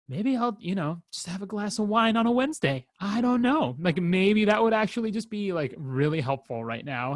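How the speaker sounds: mock-tempting yourself into a midweek glass of wine; tempted inner voice. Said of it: "part of me that's like".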